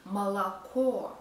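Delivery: молоко ending in a clear, full "KO"; stressed final o. Shown as a demonstration. Teacher repeating the example, молоко with stressed last o. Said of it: "so we pronounce it o".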